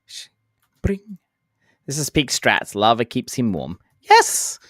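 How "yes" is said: much higher, loud yelp of joy; triumphant shout. Real, not acted. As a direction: burst out in victory. Triumphant shout during lava play.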